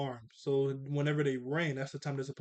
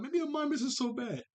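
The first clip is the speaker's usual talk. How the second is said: imitated cartoon boy; 10 semitones higher than usual. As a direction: act out a cartoon kid in a raised voice. Acts cartoon boy playing mime.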